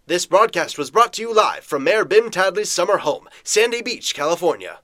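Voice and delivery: brisk, punchy news bulletin voice; old radio announcer. Acted. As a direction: read it like a breaking radio bulletin.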